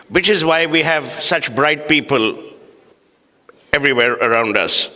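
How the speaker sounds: sarcastic. Acted. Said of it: "obviously, I'm being sarcastic".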